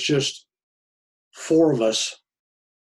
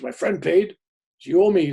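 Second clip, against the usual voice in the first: mock angry demand; 7 semitones higher, 9 dB louder than usual. Priest demanding payment.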